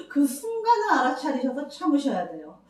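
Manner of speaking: repeating it with a catch of tears; voice breaking. Real, not acted. Counsellor telling mothers, voice breaking with tears. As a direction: let the voice crack with real emotion.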